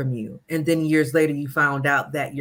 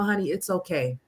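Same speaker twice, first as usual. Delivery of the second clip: soothing; 4 dB quieter than usual. Pretend. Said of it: "let them know".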